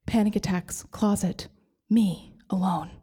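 hushed, slow whisper; small whispered aside. Retold or imitated. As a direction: breathe it like a secret. Panic attack alone in closet.

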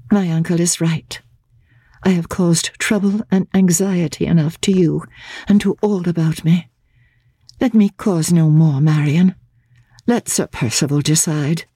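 a hint of passive despair; resigned young woman. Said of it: "inflexibly passive in her resignation".

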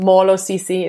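Xhosa greeting Molo, sisi said natively; speaking Xhosa. Shown as a demonstration. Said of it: "is hello".

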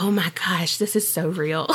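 breathless whisper; whispered awe. Retold or imitated. Retelling reading spooky stories, whispered awe. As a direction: whisper it like a secret thrill. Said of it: "I was like".

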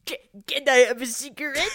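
rushed line on a held breath; holding breath. Acted. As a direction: blurt it out holding smoke in. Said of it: "say the line".

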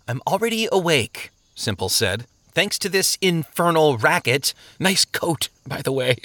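dry complaint with a teasing jab; sarcastic grumbler. Acted. Man kept awake by the racket, mocking the visitor.

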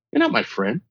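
not pressed low and firm; stress on not. Retold or imitated. To CEO who claims friendship, not pressed firmly. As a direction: lean on not in You're not my friend. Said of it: "the reason why I'm emphasizing that".

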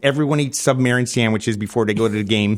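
hammed-up Chicago accent. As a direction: lay on a thick Chicago accent. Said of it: "I can put one on".

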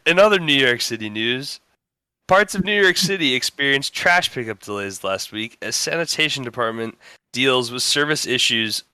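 steady newscaster delivery; deadpan news read; news anchor read. Acted. Reads a mock news story.

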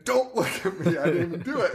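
giggling mock protest; laughing through a quote. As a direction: retell the line while cracking up. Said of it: "the son's saying".

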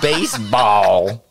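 put-on BASEBALL stretched out loud in New York accent; very slow, exaggerated New York accent; mocked New York accent. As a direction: imitate a Texan mocking New York speech. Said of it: "worst New York accent. You say".

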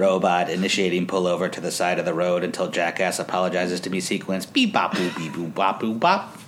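a hint of a robot droning. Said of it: "Should I do the robot voice?".

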